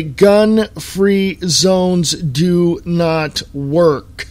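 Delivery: very slow, every word hammered; slow emphatic repeat. Real, not acted. Host repeating his point, slow and hammering. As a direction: drag it out to drive it home. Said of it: "I'm going to say this one more time".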